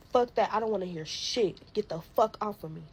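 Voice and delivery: loud, furious reenacted yell; shouting him off her in the retelling; retold angry yelling. Fighting off her baby dad, a loud angry yell.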